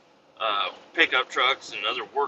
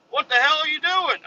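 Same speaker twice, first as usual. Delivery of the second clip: high, louder mock yell at the driver; mock angry boss; 4 dB louder than usual. Angry boss confronting the driver, high mock yell. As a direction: play the irate boss, pitched way up.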